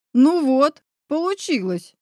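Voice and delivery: mildly thrilled, voice lifting; delighted gasp. A narrator's reading. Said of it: "восторженно ахнул мужчина". (с лёгким восторгом, на подъёме)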